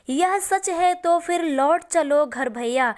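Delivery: slow, measured verse reading; poem recitation. Acted. Teacher reciting Kaikeyi's plea to Ram, slow recitation. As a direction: recite the verse line unhurriedly.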